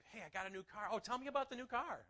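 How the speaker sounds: high, loud, keen interest; acted eager chat. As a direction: play two friends swapping exciting news. Acts out eager car chat.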